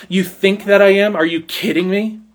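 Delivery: mildly incredulous retort; disdainful, incredulous. Retold or imitated. John the Baptist answering the priests' men, mildly disdainful. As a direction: toss it back as a scornful question. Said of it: "he holds these men in disdain".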